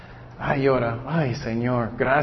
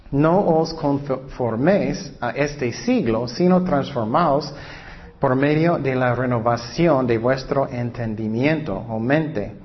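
scripture reading. Acted. Reads Romans aloud. (lectura bíblica lenta y solemne)

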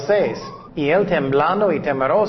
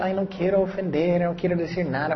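softer voice of a timid objector; mock reluctance; 3 semitones higher, 5 dB quieter, faster than usual. Preacher imitating people shy of evangelizing, in soft mock reluctance. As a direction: back off softly, as if afraid to offend. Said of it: "Y muchas veces personas".

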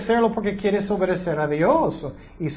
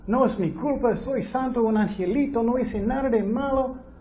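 higher, whiny innocent protest; mock victim; 6 semitones higher than usual. Preacher mimics Cain playing the victim, higher and whiny. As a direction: play the wronged innocent. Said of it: "La víctima".

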